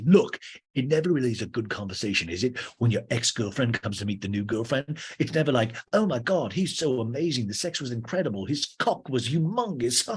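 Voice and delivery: hammed-up cocky DJ; James. DJ mocking exes meeting new girlfriends, hammed-up gushing. Plays James in a talking head.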